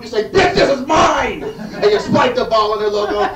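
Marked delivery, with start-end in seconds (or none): 0.3-1.4 slow, louder claiming taunt; drawn-out bragging taunt at the defeated team; mock taunt. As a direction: lay claim to it with a slow swagger. Taunting the beaten opponent.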